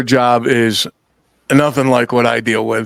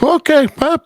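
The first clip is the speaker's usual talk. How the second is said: high, stunned okay; mock surprised okay; 11 semitones higher than usual. Stranger demanding he move his truck, and he's dumbfounded. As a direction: play it taken aback and incredulous. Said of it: "was like".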